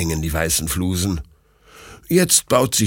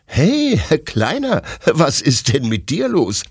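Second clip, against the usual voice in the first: higher-pitched, amused greeting to the dog; amused, laughing question; 7 semitones higher than usual. A narrator's reading. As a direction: ask it with a touch of laughter. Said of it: "fragt Detlef lachend".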